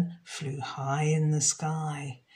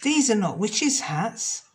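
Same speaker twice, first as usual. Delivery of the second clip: mild mock shout, a bit louder; a cross witch complaining; 3 semitones higher, 4 dB louder than usual. The witch rejects the hats, mildly cross. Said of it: "The witch shouted".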